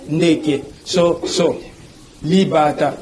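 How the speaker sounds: "Ndeke, so, so. Li, bata" broken into syllables; syllable-by-syllable demo. Shown as a demonstration. Teacher giving Lingala words as examples, syllable by syllable. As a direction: sound out "Ndeke, so, so. Li, bata" with small breaks. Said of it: "c'est toujours des syllabes".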